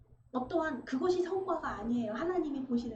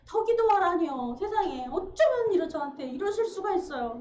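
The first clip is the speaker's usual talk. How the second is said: louder aggrieved protest to God; indignant complaint; 3 semitones higher, 4 dB louder than usual. Retold or imitated. Young pastor complaining to God after long prayer, indignant. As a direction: pour out the grievance, wounded.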